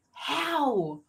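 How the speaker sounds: high, drawn-out, laughing protest; mock dismay breaking into laughter; laughing disbelief. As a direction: stretch it out high, laughing at your own accent. Retold disbelief about own accent.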